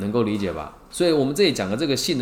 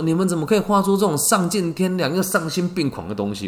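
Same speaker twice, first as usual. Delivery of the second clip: crying teacher; 7 semitones higher, 3 dB louder than usual. Retold or imitated. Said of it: "他就一边哭着说".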